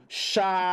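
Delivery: "Chapéu" split in two, first syllable stretched; showing the sound. Shown as a demonstration. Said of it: "Olha o som que sai".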